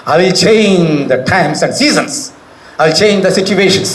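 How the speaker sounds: very slow, drawn-out proclamation; God's solemn words. Acted. Preacher quoting God to the congregation, very slow and solemn. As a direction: stretch every word like a divine decree. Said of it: "దేవుడు ఈరోజు నీతో మాట్లాడుతున్నాడు".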